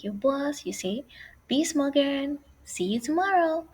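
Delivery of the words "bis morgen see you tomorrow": lifted, higher goodbye call; lightly acted send-off; acted farewell. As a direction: call out a parting to friends. Acting out a parting with friends.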